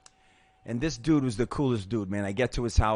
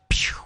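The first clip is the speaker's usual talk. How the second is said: quick "pew" sound effect; imitated whoosh; 5 dB louder than usual. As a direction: imitate a fast whoosh with the mouth. Imitates hitting the pipe.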